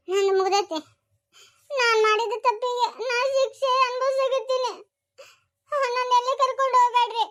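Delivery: crying through the words, voice breaking; poisoned girl crying to her grandmother that she deserves it; tearful confession. Acted. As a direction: sob it out as you admit your guilt.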